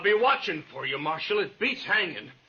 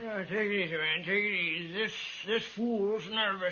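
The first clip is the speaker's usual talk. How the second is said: soft, placating words to calm a gunman; easy, hushed calming; soothing; 5 dB quieter than usual. Acted. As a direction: talk him down softly. Hostage soothes nervous gunman.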